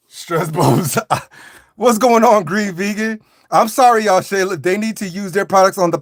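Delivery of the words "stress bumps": laughing through the words stress bumps. Shown as a demonstration. Comic repeating his own excuse, laughing through it. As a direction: breaks into a laugh mid-phrase.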